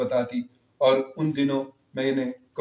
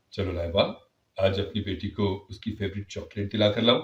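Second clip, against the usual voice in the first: lower, coaxing father voice; lovingly; 6 semitones lower, 3 dB quieter than usual. Acted. Father to daughter Laiba, lower and loving. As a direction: invite her kindly. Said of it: "بہت پیار سے کہا".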